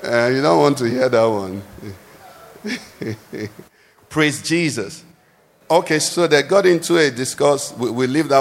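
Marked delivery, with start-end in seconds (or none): 3.0-3.5 brief, quiet chuckle; soft chuckle. Real, not acted. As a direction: chuckle softly to yourself. Joking about wives and husbands.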